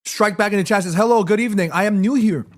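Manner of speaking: reading with a mouthful; mouth full. Real, not acted. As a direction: talk through ice cream. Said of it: "talking with my mouth full".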